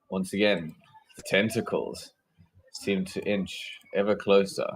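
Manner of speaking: game master's lightly menacing narration; ominous scene setting. Acted.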